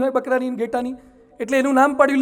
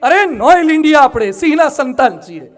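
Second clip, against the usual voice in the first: rebuking call; 4 dB louder than usual. Real, not acted. Rebuking the audience as lion.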